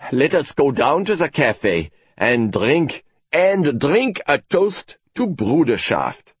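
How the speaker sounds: slow and kind; kindly. Acted. Professor kindly inviting his relieved colleague for a toast, slow and gentle. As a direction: invite him gently, slowly. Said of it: "said von Eaglefeld kindly".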